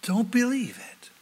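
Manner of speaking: slow, sneering voice of the enemy; slow devil sneer. Retold or imitated. The devil sneering at scripture, slow and dismissive. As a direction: drawl out the scorn, lightly voiced. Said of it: "he'll say".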